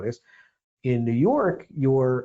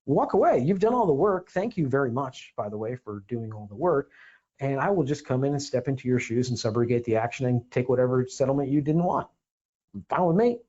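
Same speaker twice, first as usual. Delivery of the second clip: sarcastic. Retold or imitated. Sarcastic reply to threat.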